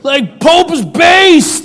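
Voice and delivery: hammed-up crowd cheer; imitating gleeful base community; mock cheering. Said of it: "they're like".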